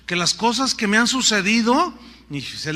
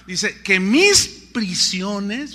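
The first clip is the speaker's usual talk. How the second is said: "mis" leaned on, words drawn out slowly; slow down and press on "mis"; stress on mis; 4 dB louder, much slower than usual. Shown as a demonstration. Preacher reading the verse aloud, stressing "mis" slowly. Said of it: "fíjate lo que dice".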